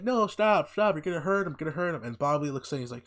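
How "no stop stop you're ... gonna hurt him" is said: put-on high, loud pleading girl voice. Teen girl begging the hillbilly kids to stop, mock high plea. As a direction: squeal it like a scared teen girl.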